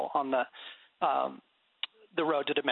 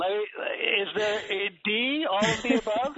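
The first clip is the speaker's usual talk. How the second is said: mock flustered; 6 semitones higher, 4 dB louder than usual. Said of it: "And I'm like".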